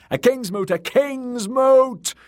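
high, loud chant stretching out at the end; very high, drawn-out rallying cry; crowd shout. Acted. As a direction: roar it as one clamouring mob. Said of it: "they shouted".

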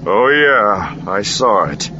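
understated growling retort; snarled reply. A narrator's reading. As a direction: answer with a touch of a snarl. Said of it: "Han snarled".

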